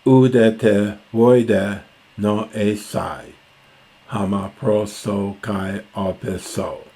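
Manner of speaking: measured, deliberate reading of verse; reciting Homer to the class; slow Greek recitation. Shown as a demonstration. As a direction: read out the Greek line slowly. Reciting the next Greek line.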